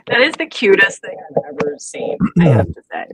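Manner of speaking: whispering. Real, not acted. Whispered aside after skit.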